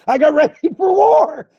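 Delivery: high-pitched fired-up cry; battle-ready shout. Real, not acted. Preacher telling how he armed against the devil, battle-ready shout.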